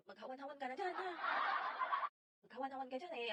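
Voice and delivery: lightly imitated Batangas-Bulacan lilt; a hint of mom's provincial Batangas-Bulacan punto; mother's mixed Batangas-Bulacan accent. Imitating mother telling someone off, light Batangas-Bulacan accent. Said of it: "naghalo yung punto ng Batangas and Bulacan sa nanay ko".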